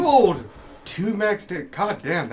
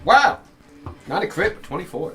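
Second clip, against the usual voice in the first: excited; 7 semitones higher, 7 dB louder than usual. Real, not acted. GM reacting to big roll.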